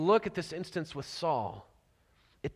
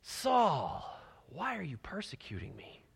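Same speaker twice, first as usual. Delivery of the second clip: soft pleading call; 3 semitones lower, 8 dB quieter than usual. Acted. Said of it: "he says it twice".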